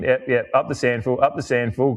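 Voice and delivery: teasing the opposing fan with a facetious cheer, lightly voiced. Port fan facetiously cheering behind, mock chant. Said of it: "a bit facetiously".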